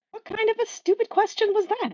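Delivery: high, scornful sneer; Crowley's grumpy inner voice. Acted. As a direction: scoff at a stupid question. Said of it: "I will do voices".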